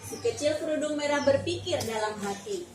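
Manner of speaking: put-on reading a fairy tale aloud to a child, steady and clear; story narration. A narrator's reading. Teacher reading Red Riding Hood to a child, storytelling voice. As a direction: tell it like a storybook for a little one.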